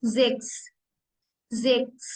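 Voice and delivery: ज़िक्स said with a z, "zeks"; ज़िक्स repeated clearly; German sechs. Shown as a demonstration. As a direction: model ज़िक्स for learners. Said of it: "सिक्स".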